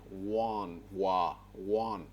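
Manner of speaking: want said slowly and clearly, ending on n; model pronunciation. Shown as a demonstration. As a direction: break want into wa, then want. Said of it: "Repeat after me".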